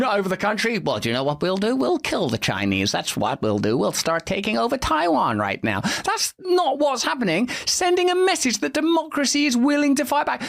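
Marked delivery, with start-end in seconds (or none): 0.8-5.8 mock Chinese government. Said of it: "It's not like bloody China when".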